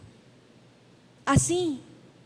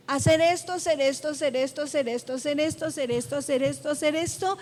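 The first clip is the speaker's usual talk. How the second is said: droning list; 3 semitones lower, faster than usual. Acted. Preacher mimics religion listing what you must do, droning repetition. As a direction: reel off the demands in a monotonous string.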